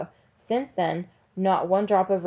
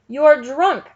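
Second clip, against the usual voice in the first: loud, high accusing outburst; yell; 8 semitones higher, 10 dB louder than usual. A narrator's reading. Teacher trying to wriggle free of the sheriff, yelling. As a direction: yell it at him in outrage. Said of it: "she yelled".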